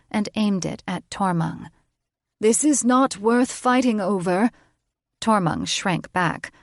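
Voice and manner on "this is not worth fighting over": firm witch. A narrator's reading. Witch aiming her wand.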